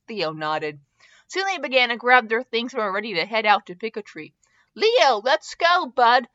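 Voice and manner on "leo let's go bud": drawn-out, higher call; lightly voiced dad calling his kid. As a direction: summon a child from another room. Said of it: "Draco called out".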